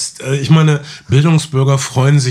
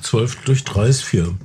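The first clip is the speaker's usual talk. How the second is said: mouth full. Real, not acted. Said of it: "mit vollem Mund".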